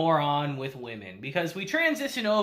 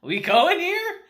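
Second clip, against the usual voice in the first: high, loud question breaking into laughter; giddy, rising disbelief; laughing incredulously; 12 semitones higher, 5 dB louder, slower than usual. Real, not acted. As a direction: ask it excitedly, about to crack up. Mock hyping the scene, cracking up.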